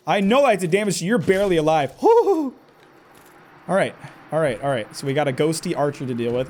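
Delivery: usual speaking voice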